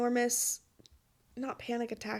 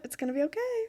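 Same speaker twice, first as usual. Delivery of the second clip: tearful reassurance; 4 semitones higher, 3 dB quieter, much faster than usual. Real, not acted. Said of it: "As I'm, like, wiping away tears".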